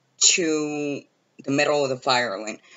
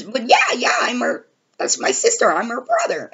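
imitating Justin; 9 semitones higher than usual. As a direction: plead that it's true. Justin insists again, shouting.

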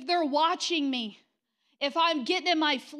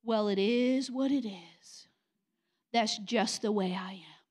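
mock resigned excuse; 4 semitones lower, slower than usual. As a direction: drag it out like a lazy excuse. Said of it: "This is a worldly term".

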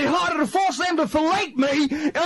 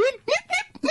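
high playful nip nip; tipsy teacher. Pretend. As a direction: sip and chirp like a boozy master. Tipsy teacher taking swigs.

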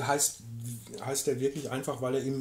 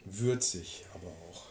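slow, soft whisper; slow hushed tasting remark; 7 semitones lower, 6 dB quieter, slower than usual. Real, not acted. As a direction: murmur the tasting note under your breath. Tasting whisky, whispered note.

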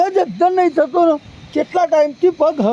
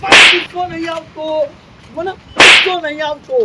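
louder grumbling denial; angry repeat; 3 dB louder than usual. Acted. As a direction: insist again, still angry. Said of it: "આવે દાદા". (ગુસ્સાથી ફરી એ જ ઇનકાર)

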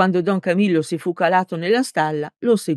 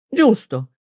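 exclaiming; 5 semitones higher, 4 dB louder than usual. A narrator's reading. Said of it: "esclamò".

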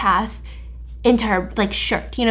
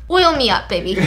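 playful breathy whisper, tongue in cheek; mock sultry whisper. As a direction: tease it in a hushed seductive whisper. Joking while oiling mochi.

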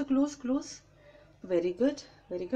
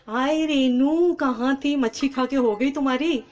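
speaking up loudly; 4 dB louder than usual. Real, not acted. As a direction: project your voice so the viewers can hear. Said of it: "थोड़ा ज़ोर से बोलो".

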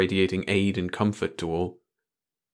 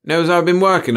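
raised-pitch, louder complaint; complaining; 9 semitones higher, 8 dB louder than usual. A narrator's reading. Chief fretting to the boys over his boss, complaining. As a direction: protest with the voice pushed up high. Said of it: "the chief complained".

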